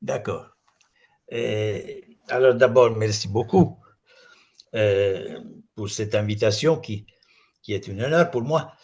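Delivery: Italian speaker's accented French; non-native French, Italian accent; foreign accent in french. Real, not acted. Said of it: "excusez-moi mon français".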